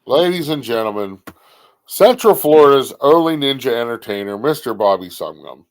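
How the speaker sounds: big showman introduction; announcer intro. Acted. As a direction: announce him like a ring host. Introduces a guest on air.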